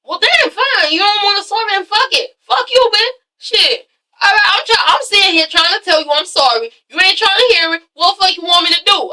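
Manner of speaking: high, indignant mock rant; angry Dre. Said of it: "And he's like".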